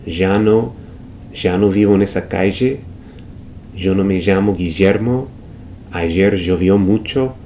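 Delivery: ya no me llamo Guillermo with ll buzzed like the s in pleasure; zh sound. Shown as a demonstration. Teacher showing the zh River Plate sound. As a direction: ll in llovió said zh. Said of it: "like the S in pleasure".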